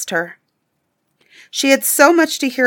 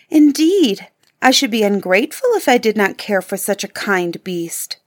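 indignant. Acted. Beauty defending the kind beast to the prince, indignant. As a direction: protest that she truly cares. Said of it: "cried Beauty indignantly".

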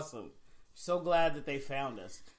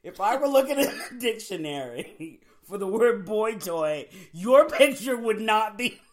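louder, emphatic courtroom retort; quoted put-down; 4 semitones higher, 7 dB louder than usual. Retold or imitated. Host retelling the judge's jab at a man, emphatic put-down. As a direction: deliver the judge's withering line with punch.

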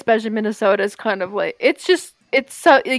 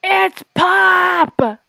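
mock outrage; 8 semitones higher than usual. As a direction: cry out it's pop in mock protest. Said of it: "insisting on pop".

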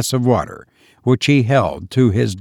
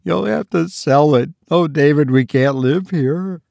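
higher, anxious wife's voice; pleading wife; 5 semitones higher than usual. Acted. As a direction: fret to the husband.

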